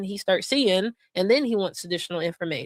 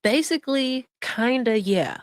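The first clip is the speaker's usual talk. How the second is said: mock echo. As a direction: parrot her words sarcastically.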